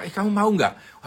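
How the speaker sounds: sharp, high call to a staffer; single out one worker, loud and high; boss calling out. Retold or imitated. Boss singles out a staffer with a loud, high call.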